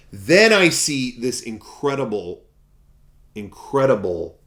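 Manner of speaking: slow, loud, awestruck build; hushed-to-loud wonder at the find; awed. Real, not acted. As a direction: marvel at it out loud. Dramatic reveal of collectible.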